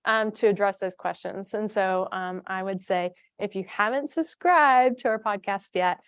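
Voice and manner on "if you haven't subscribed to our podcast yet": smooth radio announcer read. Real, not acted. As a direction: pitch it like a podcast ad. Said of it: "I sound like an announcer here".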